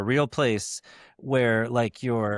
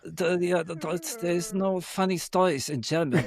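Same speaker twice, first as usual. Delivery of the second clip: high-pitched put-on German accent; 6 semitones higher than usual. Shown as a demonstration. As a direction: improvise a German accent, searching for the words. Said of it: "give me a German accent".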